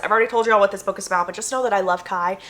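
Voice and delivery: usual speaking voice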